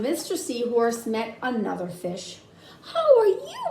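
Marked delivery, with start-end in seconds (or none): 2.9-3.6 high, giggly hello through a laugh; laughing greeting. Acted. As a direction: greet him while laughing. Mister Seahorse greets new fish.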